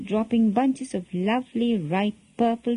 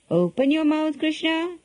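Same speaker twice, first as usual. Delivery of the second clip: stern; 6 semitones higher than usual. A narrator's reading. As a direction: order it with understated sternness. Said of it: "Yashoda said sternly".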